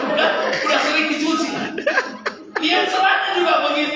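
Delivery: high and loud, laughing through the words; amused loud retelling full of laughter; laughing while telling. Real, not acted. Laughing at his faded hand-me-downs.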